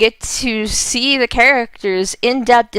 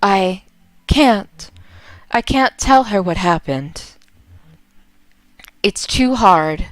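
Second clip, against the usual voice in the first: Vera, reluctant spirit. Acted.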